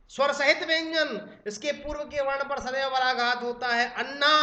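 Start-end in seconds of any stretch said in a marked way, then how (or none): 3.9-4.3 अन्ना with the weight on its opening vowel; teacher's model अन्ना, first syllable stressed. Shown as a demonstration. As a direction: stress the start of अन्ना before the double न. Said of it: "आ पर बलाघात होगा".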